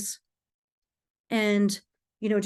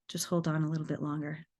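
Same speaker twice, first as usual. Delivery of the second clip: soft, lower self-talk; self-soothing mantra; 3 semitones lower, 6 dB quieter, faster than usual. Retold or imitated. Woman telling herself to hold on for kids, quietly. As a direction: murmur it low, coaxing yourself along.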